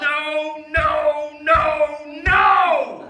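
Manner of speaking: high, loud desperate no; frantic shouting no. Acted. Dad yanking the pull start, frantic yells. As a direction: yell it over and over in panic. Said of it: "repeating himself".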